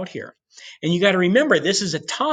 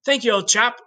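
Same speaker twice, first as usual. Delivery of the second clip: mock posh English; 8 semitones higher than usual. Teacher voicing the English court questioning Columbus, high mock British accent. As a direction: ham up an upper-class British twit. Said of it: "And the English go".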